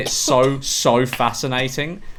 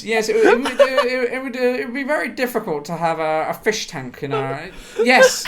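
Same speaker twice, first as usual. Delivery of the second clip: high, giggling through words; laughing; 9 semitones higher than usual. Real, not acted. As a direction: laugh while mimicking. Mocking the serious answer, laughing.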